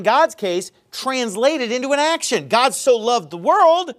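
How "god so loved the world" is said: mock wrong version.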